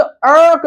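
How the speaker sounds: अर्क with a repeated-sounding R; drawn-out R. Shown as a demonstration. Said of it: "कई बार आर repeat हो रहा है". (अर्क में खिंचा हुआ र)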